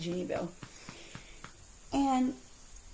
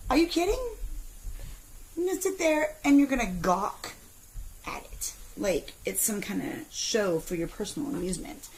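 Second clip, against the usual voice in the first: retold anger. Mom retelling telling off a gawking man, angry. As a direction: tell him off with outrage. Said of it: "I was so angry".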